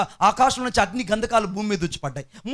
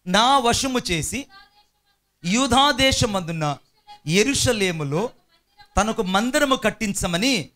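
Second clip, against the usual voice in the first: slow, measured reading of a royal decree; scripture reading; slower than usual. Acted. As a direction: read each phrase slowly with pauses, like scripture aloud.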